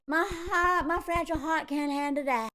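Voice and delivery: put-on hammy British-meets-Southern accent; put-on accent drifting from British to Southern; mock British-Southern accent. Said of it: "going back between British and Southern accent".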